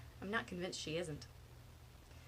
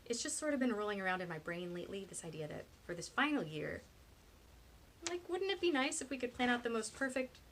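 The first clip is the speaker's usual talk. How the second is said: eager pitch, lifting higher as it builds; 5 semitones higher than usual. A narrator's reading. Penny pitches a perfect senior year, eager. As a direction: float the idea keenly. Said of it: "Penny says eagerly".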